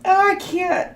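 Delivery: high-pitched helpless laughing through the words; laughing so hard the voice goes up and cracks; crying with laughter. Real, not acted. Tarot reader cracking up at the viewers' comments, laughing helplessly. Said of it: "I was literally crying, laughing".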